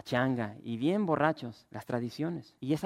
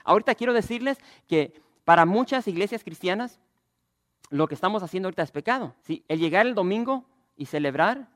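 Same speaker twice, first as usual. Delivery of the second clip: higher, louder, fast preacher's call; preaching hard; 5 semitones higher, 6 dB louder than usual. Acted. Pastor to congregation about sin, loud preaching. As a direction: press it on them with fire.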